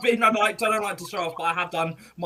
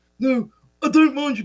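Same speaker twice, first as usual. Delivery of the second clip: cheeky, high, raised HR guy voice; 8 semitones higher, 5 dB louder than usual. Doing an impression of Gary the HR guy for a talent show. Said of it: "let me do Gary".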